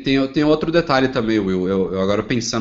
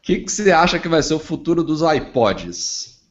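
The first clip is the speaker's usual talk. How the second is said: cracking, failing voice; voice giving out; 5 semitones higher than usual. Real, not acted. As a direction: voice breaking up mid-question. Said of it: "minha voz tá falhando". (voz falhando)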